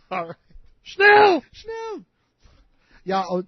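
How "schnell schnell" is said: barked German "Schnell!", high and loud; German accent. Acted. Asked to read with a German accent, barks German "Schnell!". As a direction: snap "Schnell!" like a German officer. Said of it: "Do this with an accent".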